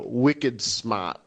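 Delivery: light Boston accent, dropped R; lightly put-on Boston accent. Shown as a demonstration. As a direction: say it with a touch of Boston. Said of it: "like, in a Boston accent".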